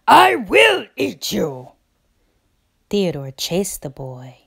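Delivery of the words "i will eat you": loud, high threat; threatening bear. A narrator's reading. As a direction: warn him you mean it this time. Theodore threatening the boy.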